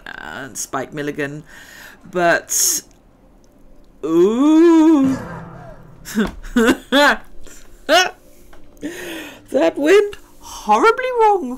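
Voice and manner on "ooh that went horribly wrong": loud laughing groan as it goes wrong; laughing dismay. Real, not acted. Gamer crashes her glider into a wall, laughing loudly. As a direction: laugh through the crash, louder.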